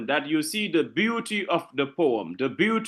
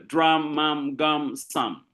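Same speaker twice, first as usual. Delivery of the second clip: drum, mum, gum, sum in a connected run, letting each -um ring; drum, mum, gum, sum as a rhyming run, falling away at the end; repeated um sound; slower than usual. Shown as a demonstration. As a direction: let them hear the shared -um in drum, mum, gum, sum. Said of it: "You hear a lot of um".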